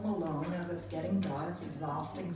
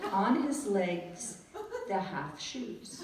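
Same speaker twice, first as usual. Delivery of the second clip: stiff phrasebook tourist; much slower than usual. Retold or imitated. Phrasebook Italian describing clothes.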